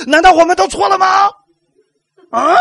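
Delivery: high, loud stress on 道; mock self-righteous protest; indignant challenge. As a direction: push hard on 道 in outrage. Mocking legalists' indignant question.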